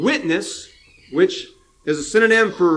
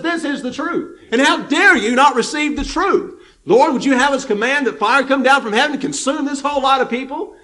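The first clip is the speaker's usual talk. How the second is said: fiery indignant plea; 5 semitones higher than usual. Retold or imitated. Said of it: "John says".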